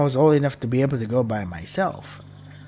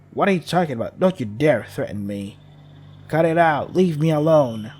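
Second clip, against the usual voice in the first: put-on defiant child; 3 dB louder than usual. Child shouts back at monster.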